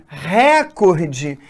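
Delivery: recorde said as RÉ-cor-de; slow recorde, punching RE; stress on first syllable. Shown as a demonstration. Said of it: "eu estou marcando a sílaba mais forte aqui".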